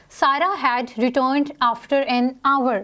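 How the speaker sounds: slow, careful dictation of the sentence; example read aloud. Shown as a demonstration. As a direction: read it out slowly for the class. Reads example sentence slowly. (धीमे से उदाहरण पढ़ना)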